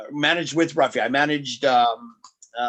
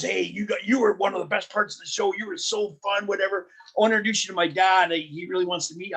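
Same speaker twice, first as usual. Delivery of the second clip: put-on eager kid voice; 6 semitones higher than usual.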